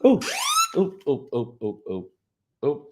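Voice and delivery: startled ooh. Real, not acted. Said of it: "That's how I reacted".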